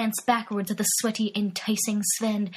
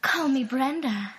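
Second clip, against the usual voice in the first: slow flirty woman voice; 3 semitones higher than usual. Acted. Brenda flirts.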